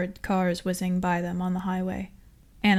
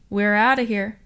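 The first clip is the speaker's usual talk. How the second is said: loud excited whoop; a driver whooping after escaping the guard; 2 semitones higher, 7 dB louder than usual. A narrator's reading. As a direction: whoop it out in triumph. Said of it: "whooped the G Z".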